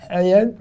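hayat avec un H soufflé du fond de la gorge; chet étouffé, fautif. Shown as a demonstration. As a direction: rate le CH de hayat, comme en s'étouffant. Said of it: "ne vous étouffez pas". (« hayat » au son de gorge étouffé, contre-exemple)

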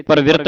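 ਪਰਵਿਰਤ said fast with a light r; ਪਰਵਿਰਤ clipped short, the foot r barely heard; quick pronunciation. Shown as a demonstration. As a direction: run ਪਰਵਿਰਤ together quickly. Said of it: "ਜਲਦੀ ਦੇ ਨਾਲ".

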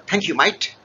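lightly put-on Australian accent for a turkey; a hint of Aussie in the thanks. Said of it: "speaking in, uh, a typical Australian accent".

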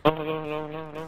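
glitchy robotic mic voice; words chopped like a robot. Real, not acted. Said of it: "Why'd you just sound like a robot?".

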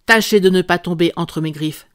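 a brute growling a last warning before he leaves; growled warning. Acted. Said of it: "grogna-t-il".

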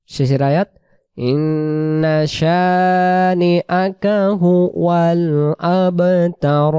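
slow chanted recitation of the sura; steady tajweed chant; Quran recitation. Shown as a demonstration. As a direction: recite the whole sura melodically. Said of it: "শুরু থেকে আমি টানগুলো দেখাই দিই".

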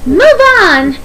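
high, hooting command; tooting. Acted. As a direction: toot the order out like an engine. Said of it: "tooted Daisy".

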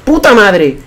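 loud, high frustrated yelling; gamer rage. Real, not acted. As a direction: curse the game at full volume. Raging at the game. (gritos de rabia contra el juego)

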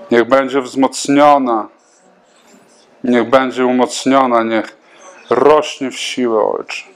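fervent spoken prayer, steady and earnest; spontaneous prayer. Acted. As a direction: pray aloud over her like a pastor. Pastor prays over a woman.

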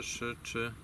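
ordinary talk, nothing marked

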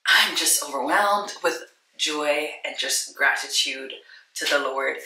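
overwhelmed thanks to the Lord; moved and grateful. Real, not acted. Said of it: "I've been crying too".

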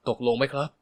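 plain reading voice

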